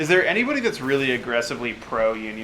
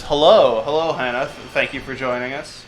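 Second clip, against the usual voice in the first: Batman voice. Acted. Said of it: "Batman says".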